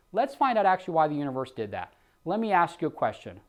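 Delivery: reach the caller's feelings; heartfelt sales reply; emotional appeal. Shown as a demonstration. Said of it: "I've gotta hit the emotional side".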